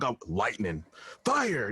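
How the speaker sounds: imitated power-wisher. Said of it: "somebody else would be like".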